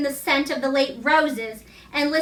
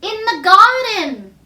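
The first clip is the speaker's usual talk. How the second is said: higher, slow, fluting call; like a golden flute; 6 semitones higher, 6 dB louder, slower than usual. A narrator's reading. The dream voice answering Archie from the garden, fluting. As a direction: let garden ring out like a flute note. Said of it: "like a sound from a golden flute".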